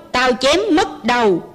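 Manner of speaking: put-on a mild roar at the old mother; soldier roaring. Soldier threatens the old mother, mild roar. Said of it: "Hắn rống hét".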